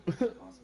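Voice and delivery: short, high mock whimper; imitated child's whine. Describing a kid waking up, brief imitated whine. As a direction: mimic a waking kid starting to fuss. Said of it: "they kinda just start whining a little".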